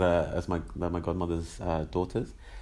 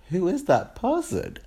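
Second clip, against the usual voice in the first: high; 12 semitones higher, 3 dB louder, slower than usual. Retold or imitated. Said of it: "I'm like".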